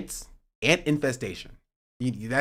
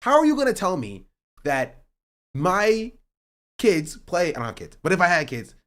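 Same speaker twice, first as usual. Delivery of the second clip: indignant rant; 4 semitones higher, 3 dB louder than usual. Real, not acted. Ranting against HOA rules.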